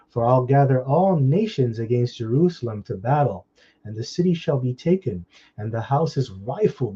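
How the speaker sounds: emphatic Bible verse recitation; deliberate, punched preacher's reading; scripture reading. Real, not acted. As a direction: read the verse out firmly, stretching the last phrase. Reads scripture aloud.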